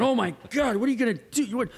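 high-pitched mock panic; retold alarm. Diver watching his buddy's line run out, high alarm.

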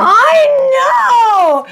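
high, loud laughing cry; swooning squeal. Real, not acted. Fan swooning at the romantic scene, high and loud. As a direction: melt at the romance.

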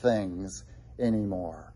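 lightly acted taunt, pitch lifted then falling away; mildly mocking. Old friends to a convert who stopped running with them, mildly mocking. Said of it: "are mocking you and say".

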